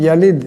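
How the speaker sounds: ইয়ালিদ said as wrong yalid. Shown as a demonstration. Teacher shows students the wrong reading, ইয়ালিদ mispronounced. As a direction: shows the faulty ইয়ালিদ with ya sound. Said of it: "এমন করে".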